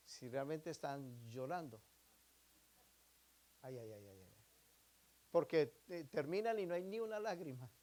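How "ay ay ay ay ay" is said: mock fake crying. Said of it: "personas que en la oración lloran".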